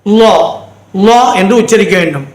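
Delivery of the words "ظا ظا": லா as a rounded 'lo', Arabic Zaa; thick, rounded vowel in லா; tongue-to-roof heavy sound. Shown as a demonstration. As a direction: stick the tongue up for லா. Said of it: "ஒட்டிக்கணும்".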